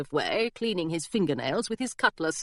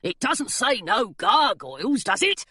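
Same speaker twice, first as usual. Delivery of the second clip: cheeky gargoyle; 2 semitones higher than usual. A narrator's reading. Gargoyle argues sign.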